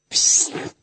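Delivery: voiceless hushed "pszt"; whispered shush. A narrator's reading. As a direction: hiss a quick, soft shush. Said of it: "suttogta Muki".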